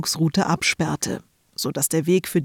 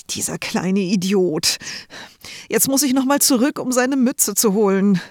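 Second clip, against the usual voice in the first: annoyed grumble rising to a fast, higher rant; fed-up big brother swearing under pressure; big brother cursing over the forgotten cap, fast and higher; 4 semitones higher than usual. Acted. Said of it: "fluchte Samuel".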